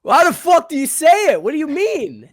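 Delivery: high, loud disbelief; baffled outburst; incredulous. Real, not acted. Mock outrage over pronunciation.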